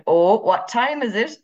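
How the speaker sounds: high, slow Irish mammy impression. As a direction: jokily tell off a latecomer, Irish mammy style. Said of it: "like, an Irish mammy".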